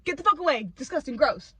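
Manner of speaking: mock revolted yell; disgusted shout. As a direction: wave off something gross. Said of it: "It's just".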